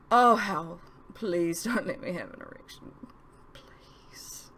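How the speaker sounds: pleading. A narrator's reading. Narrator's panicked inner prayer.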